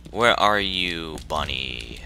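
slow taunting call; a hint of sing-song taunting. Real, not acted. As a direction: tease the monster. Taunting the monster.

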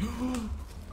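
soft, high gasp. Real, not acted. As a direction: draw a quick scared breath. Terrified by the driving.

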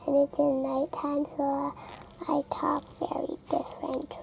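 hushed, dropping to a near-whisper; talking quietly. Real, not acted. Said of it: "I have to talk quietly".

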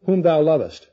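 "whom thou lovest" set apart and stressed; emphasis on WHOM THOU LOVEST. Shown as a demonstration. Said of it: "notice the emphasis".

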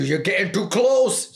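mock cat warning, climbing high; high, agitated pet impression; alarmed cat voice. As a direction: voice a cat getting worked up, pitch rising. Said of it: "She's like".

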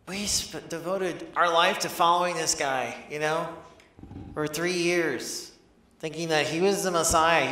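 a touch of indignant anger, punching key words; understated frustration, pausing between phrases; mild anger. Acted. Disciple venting about following a dead Messiah, mild anger. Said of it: "What may be anger?".

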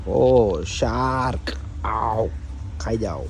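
loud mock call, "ઓ" shouted out across the pool; playful call to a shark. Vlogger at the pool daring an imaginary shark, loud playful call. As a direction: dare the shark to come eat him.

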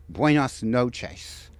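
slow, careful "buenas noches" in Spanish; careful Spanish greeting. Acted. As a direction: sound out "buenas noches" syllable by syllable like a learner. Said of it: "Did I get that right?".

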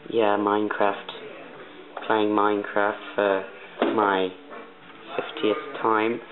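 practised, put-on British accent; Canadian trying on British English. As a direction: speak in an amateur British accent. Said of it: "I'm trying to practice my English accent".

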